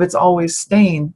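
"Stain" said slowly to rhyme with rain; Stain pronunciation. Shown as a demonstration. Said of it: "is it Steen or Stein".

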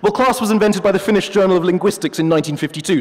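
a hint of a haughty professor; pompous wolf. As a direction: play the wolf as a self-important academic. The wolf claims.

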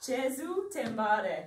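Jesu te mare drawn out in one go; slow repeat. Shown as a demonstration. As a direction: practise the phrase slowly and carefully. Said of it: "Can you say it slower?".

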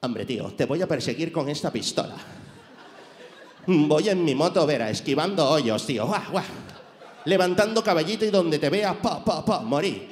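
a light Castilian action-hero voice; Spanish movie hero bragging about his motorbike; Spanish accent. Retold or imitated. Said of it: "te lo imaginas ese acento".

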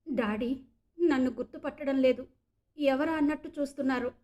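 words broken by light sobs; sobbing. Acted. Meghana tells Saket her father doesn't recognize her, sobbing. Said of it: "వెక్కుతూ అంది మేఘన".

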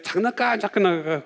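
imitating a child whining for a toy. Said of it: "막 울기 시작을 합니다".

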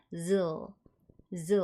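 즈 said as "zzl", closing on a dark L; z ending in L. Shown as a demonstration. Teacher modelling the end of drizzle, 즈 as z plus L. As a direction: buzz the z of 즈, then finish on L. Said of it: "끝에 을 발음으로 마무리".

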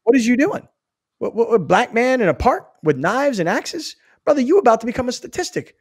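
mock-concerned talking-to; incredulous appeal. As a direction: plead with him in disbelief. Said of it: "I'd try and play it like that".

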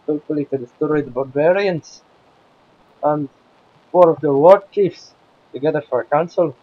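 lightly played Scotsman; put-on Scottish accent. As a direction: talk like a Scotsman, as a game-host act. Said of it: "My Scottish accent".

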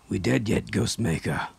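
raspy, monotonous voice; rasping monotone. Acted. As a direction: rasp it out in a monotone. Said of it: "His voice had a rasping, monotonous quality".

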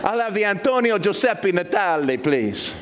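lightly voiced diner ordering, laughing; mock restaurant order. Pastor ordering a dish at a restaurant, laughing. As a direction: order his name like a dish, amused. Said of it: "I felt like I was in a restaurant".

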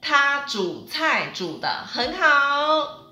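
slow, careful teacher demo; slow model sentence. Shown as a demonstration. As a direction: say it slowly so learners can follow. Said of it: "Great, awesome".

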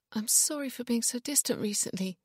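high-pitched pleading female character; panicky. A narrator's reading. Wife apologising to Ian for being distant, panicky. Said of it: "panic in her voice".

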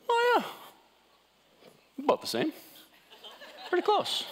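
very high, falsetto mock of a self-satisfied guy; smug guy. Mocking how men judge themselves in the mirror, squeaky falsetto. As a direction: squeak it out like a guy shrugging off his flabby body. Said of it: "what do they think?".

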